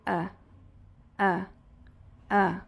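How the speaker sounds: short lax "a" as a neutral uh; "a" with mouth slightly open, tongue flat; schwa sound. Shown as a demonstration. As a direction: say "a" as a lazy, unstressed uh. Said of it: "o som desse som aqui vai ser".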